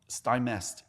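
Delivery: Stymest said as STY-mest, long i, clear -est; correct name pronunciation. Shown as a demonstration. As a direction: Stymest stressed first, STY, ending -mest. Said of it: "E S T".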